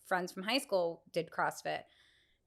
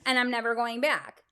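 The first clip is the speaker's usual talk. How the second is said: loud, laughing outburst of exhausted anger; half-joking rant at the husband after the class; mock furious refusal; 6 semitones higher, 11 dB louder than usual. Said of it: "And I was like".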